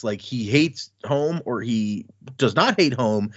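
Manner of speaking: slow, with not leaned on hard; stress on not. Shown as a demonstration. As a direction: lean on the word not to flip the meaning. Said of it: "you could take that two ways".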